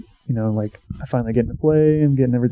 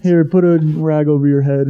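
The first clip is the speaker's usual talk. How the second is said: higher, louder, slow mock-caring nurse; 4 semitones higher, 4 dB louder than usual. Pitcher mocking trainers' remedies, slow and mock-caring. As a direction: drawl it like a clueless nurse.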